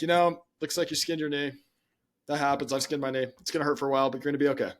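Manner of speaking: steady, unbothered, reassuring tone; calm reassuring parent. Retold or imitated. Dad calmly reassuring kid with skinned knee, even and warm. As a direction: brush it off gently, it's fine. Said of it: "if the dad or the mom says something like".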